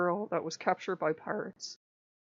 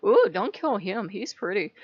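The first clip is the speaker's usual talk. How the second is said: louder swoon on "Ooh", then lightly pleading; swooning pirate queen; 6 dB louder than usual. Retold or imitated. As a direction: play up the lovestruck queen a little. Same queen quote, hammed up more.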